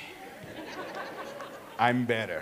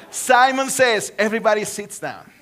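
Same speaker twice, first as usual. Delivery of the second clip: game caller; 4 dB louder than usual. Acted. Leading Simon Says game.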